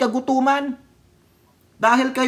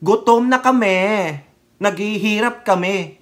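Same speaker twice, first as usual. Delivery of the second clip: drawn-out imitation of protest whining; mock complaining. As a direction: mimic protesters moaning, stretched out. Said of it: "magrereklamo ng".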